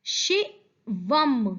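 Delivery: शिवम slowly in two parts, शि then वम; sounded final m. Shown as a demonstration. Teacher reading the third word to children, शिवम drawn out. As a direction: stretch शिवम and hum the closing m. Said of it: "ध्यान दीजिए कि फिर से माँ".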